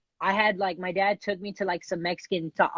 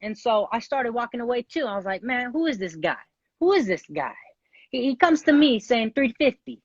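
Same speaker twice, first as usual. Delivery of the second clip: wobbly attempted British accent. Contestant finishing his improvised story before time runs out, in an attempted British accent. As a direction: keep up an amateur British accent while telling a tale. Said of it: "You gotta just talk in your British accent".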